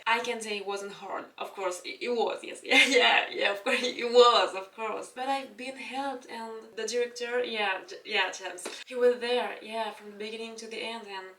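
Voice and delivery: play-acted humble star interview; interviewed actress. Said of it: "comme si je parlais à la présentatrice".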